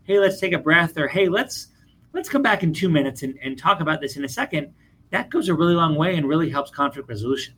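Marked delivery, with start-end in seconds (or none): 0.0-4.7 calm suggestion. Pretend. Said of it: "if you can calmly say".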